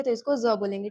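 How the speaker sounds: "ज" as a thick Z; thickened Z sound. Shown as a demonstration. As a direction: make the "ज" heavy, like Arabic zwad. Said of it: "गाढ़ा करके निकालेंगे".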